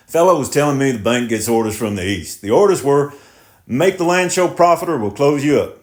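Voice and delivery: defensive and pleading; tractor driver voice. Acted. Driver explains orders.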